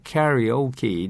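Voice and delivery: カラオケ in English style, "carry-OH-kee"; 英語風発音. Shown as a demonstration. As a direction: say カラオケ as Americans do, "carry-oh-key". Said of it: "欧米人のようにですね". (欧米人風に「キャリオーキー」と発音)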